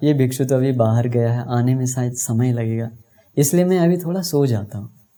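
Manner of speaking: ordinary delivery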